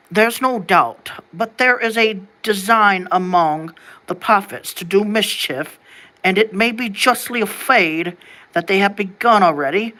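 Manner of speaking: lightly voiced colonial newspaper reader; seventeen-hundreds Bostonian. Shown as a demonstration. Imagining reading news in old Boston, colonial voice. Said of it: "would I be speaking like this?".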